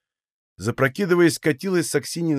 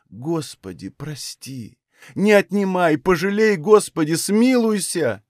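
frantic prayer; 5 semitones higher than usual. Acted. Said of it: "Аксинья неистово молилась".

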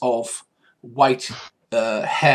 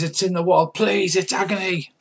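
slightly raised voice, begging in pain; pleading captive; 5 semitones higher than usual. Acted. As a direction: plead lightly as the hurt bandit. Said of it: "Yes, he says".

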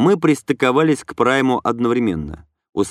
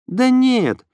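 higher female voice, a touch unhappy; unhappy young woman; 10 semitones higher than usual. A narrator's reading. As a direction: answer glumly as Lena. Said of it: "сказала Лена с несчастным видом".

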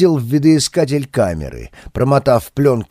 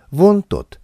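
ordinary delivery

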